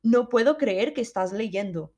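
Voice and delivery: Spanish quote. Retold or imitated. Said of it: "ouço alguém ao meu lado a dizer".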